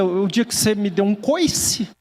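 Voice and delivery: slow retort, "coice" stretched upward; unspoken retort. Retold or imitated. Preacher's thought to a rude acquaintance, drawn-out retort. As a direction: draw out the imagined comeback. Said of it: "só pensei".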